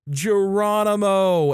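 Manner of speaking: drawn-out high mock scream of a battle cry. Child screaming into the mic in a game, imitated scream. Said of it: "and screaming".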